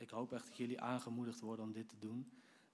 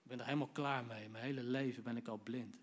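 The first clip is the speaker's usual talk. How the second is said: unafraid demand; 4 dB louder than usual. Retold or imitated. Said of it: "Hij is echt niet bang".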